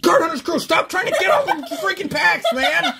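high, laughing complaint; laughing mock outrage. Real, not acted. Host teasing a repeat winner, laughing and high. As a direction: scold them through the laughter. Same winner drawn again.

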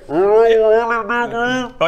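shouting through a wall. Acted. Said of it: "Just projecting through the wall".

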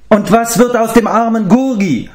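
high, howling beast-man whine; howling creature. Acted. Gurgi the captive howls at his captors, high wailing creature. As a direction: wail it like a pitiful little creature. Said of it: "heulte Tarans Gefangener auf".

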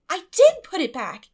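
quick and pert. A narrator's reading. Anne contradicting Marilla, pert and loud. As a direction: snap it back pertly. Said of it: "said Anne quickly, pertly".

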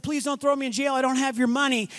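lightly voiced pleading servant; begging servant. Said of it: "begged and said".

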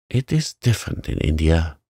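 disdainful. Acted. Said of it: "said Mistress Mary disdainfully".

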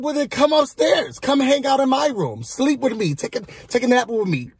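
high imitation of an eager come-on; mock coaxing invitation. Housemate invites him up for a nap, mock coaxing.

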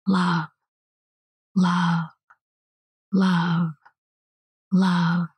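repeated prayer. Shown as a demonstration. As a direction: intone it like beads on a rosary. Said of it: "ceaselessly praying the feeling".

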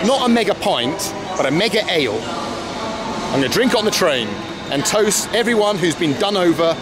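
ordinary talk, nothing marked

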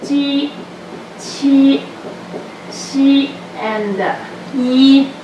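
each syllable said apart with pauses; ji, qi, xi, yi spaced out and clear; slow careful list of ji qi xi yi. Shown as a demonstration. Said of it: "This is because".

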